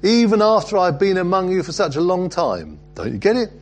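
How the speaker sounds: high, loud, incredulous reproach; exasperated rebuke. Acted. Jesus answering his disciple's request, exasperated rebuke. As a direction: plead with a pupil who still doesn't get it.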